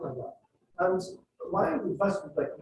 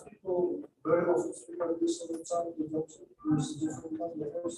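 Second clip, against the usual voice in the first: monotone on "speak like this all the time"; flat intonation; 3 semitones lower than usual. Shown as a demonstration. Teacher showing students how people talk without meaning, flat intonation. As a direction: keep "speak like this all the time" on one level tone. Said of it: "it's a flat intonation".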